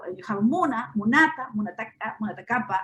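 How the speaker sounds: "muna, munata, munataka, munatakapa" with stress moving to the next-to-last syllable each time; stress on the penultimate syllable. Shown as a demonstration. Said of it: "stress will just jump to the penultimate syllable".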